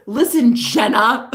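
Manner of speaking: slow, drawn-out imitation of him; imitating boyfriend's delivery. Girlfriend showing how her boyfriend said it, slow imitation. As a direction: mimic him, stretching the words. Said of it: "this is how he said it".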